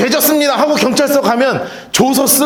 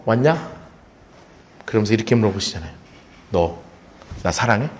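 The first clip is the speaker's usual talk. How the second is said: soft low Jesus; 12 semitones lower, 7 dB quieter than usual. Pretend. Jesus voiced gently to Peter.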